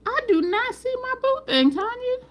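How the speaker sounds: very high playful protest; mock complaint. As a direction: squeal it out in mock dismay. Mock complaint about missing friend.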